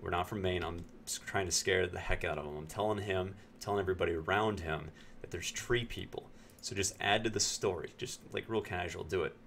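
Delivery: hushed, secretive aside to the waiter; conspiratorial whisper. Retold or imitated. Narrator pulls the waiter aside and whispers the plan. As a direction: lean in and let him in on the prank quietly.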